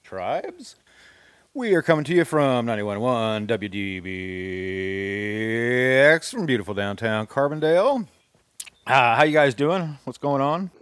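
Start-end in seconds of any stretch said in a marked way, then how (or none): 1.5-8.1 insane movie voice. Acted. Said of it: "I started out with that insane voice".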